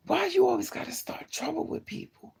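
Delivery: high-pitched, incredulous question; high exasperated quote. Retold or imitated. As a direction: squeak it out in disbelief. Retelling confronting troublemaker.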